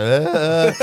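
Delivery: mock stuck-for-words stammer; stage-fright noises. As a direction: act out freezing on stage. Acting out freezing on stage.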